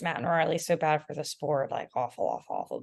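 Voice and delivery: lightly voiced snarky commenter; hint of a sneering critic; mocking online haters. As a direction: sneer it like a hater in a Facebook chat. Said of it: "they're all like".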